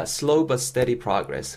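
very slow, every syllable laid out; slow model reading. Shown as a demonstration. English teacher modeling the phrase for learners, very slow. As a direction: model it slowly for students to copy. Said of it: "세 번째입니다".

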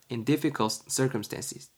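each syllable drawn out; very slow. Shown as a demonstration. Teacher reading the example phrase, very slow for learners. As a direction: stretch the phrase out slowly. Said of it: "B가 뭐라 그래요?".

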